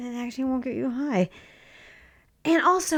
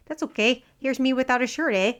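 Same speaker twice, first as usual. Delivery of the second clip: put-on Canadian accent; 2 semitones higher than usual. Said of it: "I went full Canada".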